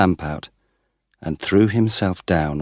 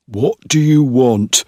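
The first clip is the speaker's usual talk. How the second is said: loud, higher angry demand; 7 semitones higher, 8 dB louder than usual. A narrator's reading. Startled man confronts stranger in shed: loud angry demand. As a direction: bark the question at the intruder. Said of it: "he asked angrily".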